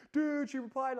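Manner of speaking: high, loud disbelieving glee; can't contain it; telling the boys she texted back, ecstatic; thrilled shout. Retold or imitated. Telling your boys about her text.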